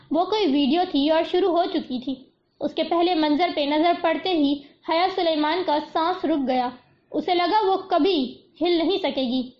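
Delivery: ordinary delivery, nothing marked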